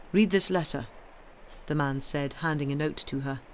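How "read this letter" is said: put-on lightly Italian-accented command. A narrator's reading. Messenger handing a girl a note, Italian accent. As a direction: give a firm order with an Italian accent. Italian stranger continues speaking.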